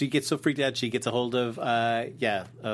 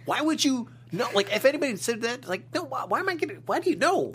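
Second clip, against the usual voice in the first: high, disbelieving questions; incredulous; 9 semitones higher than usual. Real, not acted. Reacting to a strange secret request with high, incredulous questions. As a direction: pitch it up in disbelief.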